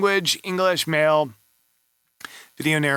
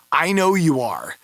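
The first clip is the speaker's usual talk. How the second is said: whisper; 2 semitones higher, 3 dB louder than usual. Real, not acted. Gentle aside to the seller.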